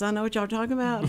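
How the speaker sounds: quick Texas twang with y'all; Texas accent. Shown as a demonstration. Showing how her Texas accent came back, Texan twang. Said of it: "I started talking like this".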